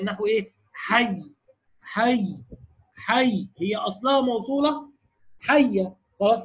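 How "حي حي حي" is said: حي held on a doubled y at the stop; الوقف على حي بإظهار التشديد; stopping with the doubling. Shown as a demonstration. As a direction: demo of حي said with the shadda clearly kept. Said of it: "مع مراعاة التشديد".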